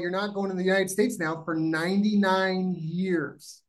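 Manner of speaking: a hint of an unmoved immigration officer; stern border officer. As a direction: deliver the ban like a cold official. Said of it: "He's like".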